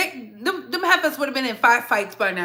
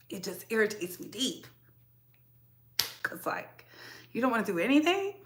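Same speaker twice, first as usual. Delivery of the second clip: much softer, sinking frustration; fed-up and drained, softer; weary; 10 dB quieter than usual. Real, not acted. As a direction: let it drop to a tired murmur.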